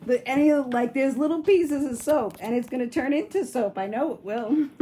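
giggling through the words, loud; laughing. Real, not acted. To viewers about the table, laughing loudly. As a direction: laugh out the worry.

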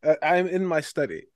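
pompous aristocrat, lightly voiced; a self-important noble introducing himself; posh noble character. Plays a stuffy noble character.

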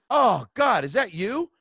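fussy British gal in the next row; appalled British lady. Retold or imitated. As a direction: squeal it like an offended older Englishwoman. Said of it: "And she's like".

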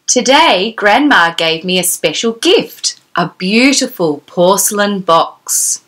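gentle, measured read-aloud of a picture book; storybook reading. Acted. Fairy storyteller reading the book to Gemma, gentle read-aloud. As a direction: read it like bedtime story time for a little girl.

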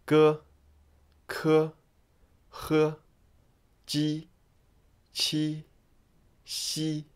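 G K H J Q X as isolated Mandarin syllables, level tone; each Pinyin initial sounded evenly, with pauses; Pinyin pronunciation demo. Shown as a demonstration. Teacher gives the second line a try, Pinyin demo. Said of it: "how to pronounce them".

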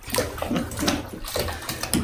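breathy, mostly voiceless laugh; amused laugh. Real, not acted. Owner laughing at his wet animals' looks, breathy laugh. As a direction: laugh helplessly under the breath.

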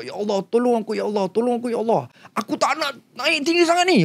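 high pleading prayer; retold plea. Frightened man begs God, mildly pleading. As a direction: beg God for help, a touch desperate. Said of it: "Aku cakap".

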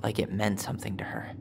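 soft bitter whisper. Real, not acted. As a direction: mutter it, hurt, under your breath. Bitter aside about drawn hearts.

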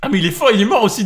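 fast, loud words through laughter; laughing. Real, not acted. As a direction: laugh while you say it. Laughing at teammate's death.

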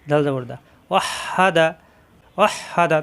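ওয়াহ হা দা with the হ said twice, once closing ওয়াহ and again opening হা; doubled ha. Shown as a demonstration. Teacher drills the tashdid letter read twice. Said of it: "তাজদিদ ওয়ালা অক্ষর দুইবার পড়তে হয়".

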